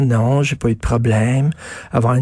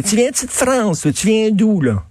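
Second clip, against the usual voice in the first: curious questioner; 6 semitones higher than usual. Retold or imitated. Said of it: "Elle se fait souvent demander".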